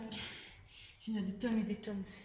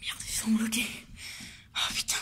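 whispering. Real, not acted.

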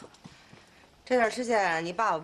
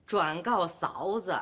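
slow, lower read-aloud; halting letter reading; 5 semitones lower, slower than usual. Acted. Wife reads thanks addressed to herself, slow and sheepish.

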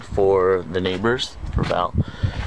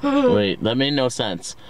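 retold reply; 4 semitones higher, slower than usual. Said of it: "and I said".

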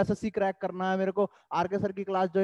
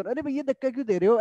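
a higher, indignant mock complaint; mock the girl's offended tone, somewhat higher; imitating annoyed girl; 5 semitones higher, faster than usual. Teacher re-enacts the girl's reaction for students, mildly mocking. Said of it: "उस लड़की का expression".

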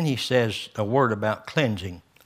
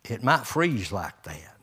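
lightly voiced dad, slowing on the end; dad's warning. Pastor retells his dad's teasing warning, lightly mock stern. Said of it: "And Daddy used to say that".

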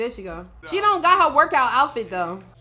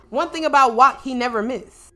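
ordinary talk

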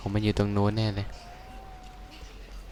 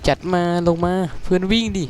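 frantic urging; 10 semitones higher than usual. Real, not acted. Gamer yelling at his teammate to run, frantic and high. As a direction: push the words out in a panic, pitched high.

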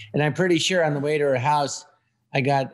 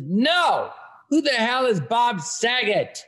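indignant punchline; 7 semitones higher, slower than usual. Acted. Joke punchline, little person character.

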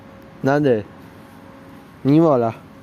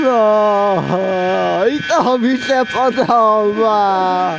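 overjoyed; 3 semitones higher, much slower than usual. Real, not acted. Train returns, vlogger overjoyed.

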